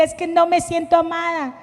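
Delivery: hint of retold crying; mock tearful plea. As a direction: replay her tearful complaint lightly. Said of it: "Y yo llorando".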